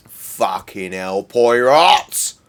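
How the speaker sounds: loud, drawn-out cry at the game; exasperated yell. Real, not acted. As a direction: bellow the name in despair. Frustrated at game, yelling.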